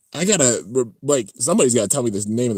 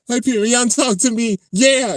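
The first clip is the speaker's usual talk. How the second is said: high-pitched mock jubilation; so excited; 12 semitones higher, 4 dB louder than usual. Character celebrating Hyperion talking to him, acted excitement. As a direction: exclaim like an overjoyed cartoon hero. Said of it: "he's so excited".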